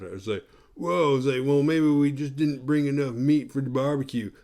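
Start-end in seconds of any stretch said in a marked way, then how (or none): 0.7-1.2 higher dopey dude exclamation; Bill and Ted type. Retold or imitated. Jackass friend reacting at the party, imitated burnout dude. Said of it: "like the Bill and Ted type guy". 1.4-4.3 lightly voiced dopey dude; a hint of goofy burnout; Bill and Ted type. Jackass friend joking about the barbecue, imitated burnout dude. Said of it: "like the Bill and Ted type guy".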